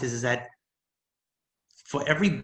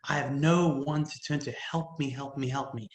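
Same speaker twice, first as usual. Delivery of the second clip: retold bawling plea. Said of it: "I bawled and I said".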